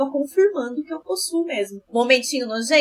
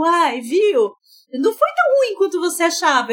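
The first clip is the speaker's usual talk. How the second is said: smug sing-song voice; 6 semitones higher than usual. Retold or imitated. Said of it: "E a mulher, tipo".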